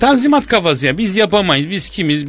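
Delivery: mildly worked-up comic tirade; irritated rant. Acted. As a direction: grumble with a touch of exasperation. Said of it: "Kızıyorum ben bazen". (hafif sinirli, söylenir gibi)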